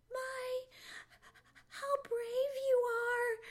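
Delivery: high, slow admiring voice; high-pitched, awed she-woodchuck; Polly Chuck. A narrator's reading. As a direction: marvel at him in a high, drawn-out voice. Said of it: "said Polly Chuck".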